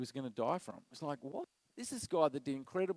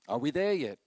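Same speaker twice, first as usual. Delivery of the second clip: put-on whiny kid; 6 dB louder than usual. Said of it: "Any parent will know".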